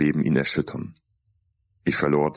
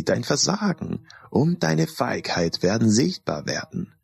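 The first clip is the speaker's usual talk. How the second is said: higher, eerie taunting voice of a cursed mask; mock his fears as a cold, higher-pitched mask; sinister talking mask, higher and taunting; repulsive mask voice; 5 semitones higher than usual. A narrator's reading. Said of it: "flüsterte sie in einer widerlichen Stimme".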